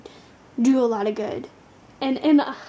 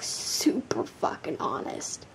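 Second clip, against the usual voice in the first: whisper; 8 semitones lower, 7 dB quieter than usual. Acted. Whispered aside about readings.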